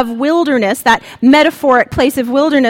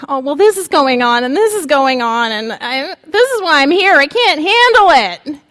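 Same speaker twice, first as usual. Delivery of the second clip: whiny voice; 2 semitones higher than usual. Shown as a demonstration. Preacher reading Elijah with a whiny voice. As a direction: whine it out like Elijah. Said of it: "I often read it with a whiny voice".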